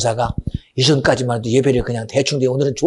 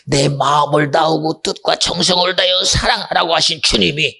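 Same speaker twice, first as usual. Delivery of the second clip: loud, higher, rising preacher's cry; fervent preaching; 3 semitones higher, 3 dB louder than usual. Acted. Pastor pressing the congregation with questions, fervent loud preaching. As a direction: drive the question home to the congregation. Preacher builds to full force.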